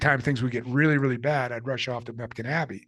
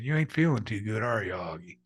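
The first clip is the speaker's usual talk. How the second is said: put-on Southern North Carolina accent. Gym acquaintance checking on an injured man, in a North Carolina accent. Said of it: "strong Southern North Carolina accent".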